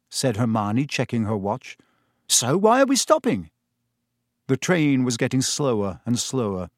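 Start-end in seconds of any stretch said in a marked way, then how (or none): 2.3-3.5 puzzled. Acted. Ron puzzled, raised voice.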